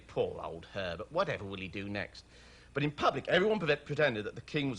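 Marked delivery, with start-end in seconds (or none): 0.1-2.2 lower, softer aside; private head-shaking pity. A narrator's reading. Author voicing subjects lamenting their king in private, hushed. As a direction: murmur it with mock pity. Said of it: "shake their heads and say".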